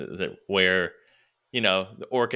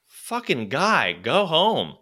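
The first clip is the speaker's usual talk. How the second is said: exasperated thought; 6 semitones higher, much slower than usual. Retold or imitated.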